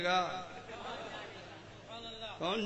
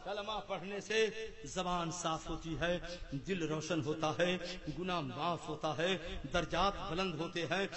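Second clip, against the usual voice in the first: quiet wind-down; 4 semitones lower, 8 dB quieter than usual. Real, not acted. Calm after climax.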